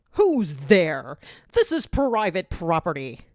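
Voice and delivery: lightly voiced blustering villain; threatening tyrant. Barker calls out at the noise, mildly threatening. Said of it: "Barker threatens".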